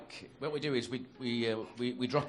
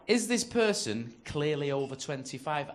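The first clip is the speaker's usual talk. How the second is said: self-checkout prompt; 4 dB louder, slower than usual. Retold or imitated. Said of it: "and it says".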